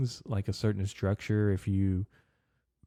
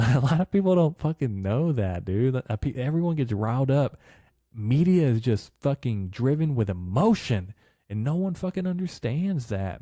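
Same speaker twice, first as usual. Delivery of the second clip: heated rant; 5 semitones higher, 4 dB louder than usual. Real, not acted. Heated rant about media emotion.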